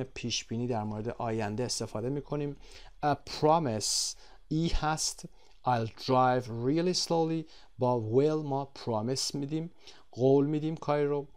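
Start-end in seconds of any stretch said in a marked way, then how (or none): 5.7-7.5 slow, deliberate example line; slow model reading. Shown as a demonstration. Teacher rereading the promise example, slow and clear. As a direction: draw out each word for learners. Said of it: "teacher models example again".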